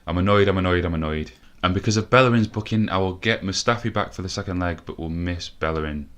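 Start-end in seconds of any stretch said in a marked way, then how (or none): 0.1-1.3 annoyed. Real, not acted. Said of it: "I can't even put it in a lighter voice".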